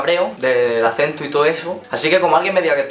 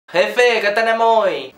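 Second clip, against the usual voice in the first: Andalusian Spanish; 7 semitones higher, much slower than usual. Retold or imitated. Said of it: "pasa esto".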